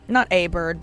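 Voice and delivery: "a" said as a full "ay", set apart; emphatic "a", pronounced like the letter A; stress on A. Real, not acted. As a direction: lean on "a" as "ay" to correct it. Corrects singular article to plural.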